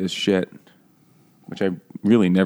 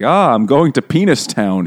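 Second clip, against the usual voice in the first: higher-pitched, hammed-up outburst; mock exclamation; 5 semitones higher, 4 dB louder than usual. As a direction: exclaim it like an overwrought novel character. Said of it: "he ejaculated".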